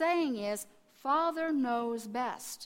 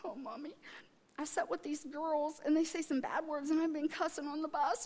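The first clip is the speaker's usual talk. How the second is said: higher, mock-upset child voice; guilty confession; 4 semitones higher than usual. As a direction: imitate a daughter confessing to her mother. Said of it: "I feel so bad".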